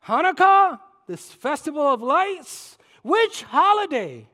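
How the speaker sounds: a pointed, slowed challenge; rising challenge. Retold or imitated. Preacher pressing the cashier.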